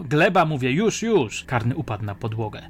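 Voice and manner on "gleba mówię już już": loud, urgent, furious repeat; enraged command. A narrator's reading. Policeman forcing the suspect to the floor, furious shouting. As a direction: raise the voice and demand obedience at once. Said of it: "zmienił się w rozjuszoną bestię".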